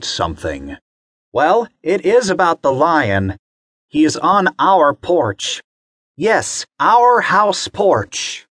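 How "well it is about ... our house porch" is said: higher, lightly voiced mother; an anxious mom on a call; mom on the phone. Mommy calling the zoo emergency line, higher voice. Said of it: "the person on the phone".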